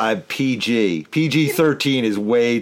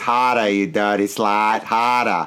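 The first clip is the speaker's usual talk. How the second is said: put-on Boston accent; 2 semitones lower than usual. Asking whether the actor used that accent, acting it out: boston accent. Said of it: "did the guy do it in a Boston accent".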